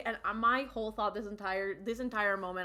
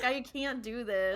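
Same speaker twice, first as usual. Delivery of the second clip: exasperated; 3 semitones higher, slower than usual. Real, not acted. Co-host overwhelmed by the plot point.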